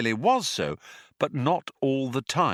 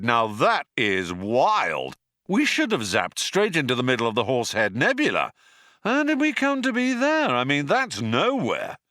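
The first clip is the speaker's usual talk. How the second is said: amazed; 3 semitones higher, 3 dB louder than usual. Acted. Zaphod amazed at coincidence.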